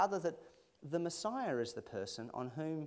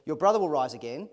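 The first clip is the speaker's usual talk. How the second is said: loud proclamation; 10 dB louder than usual. Acted. Jesus voiced, much louder.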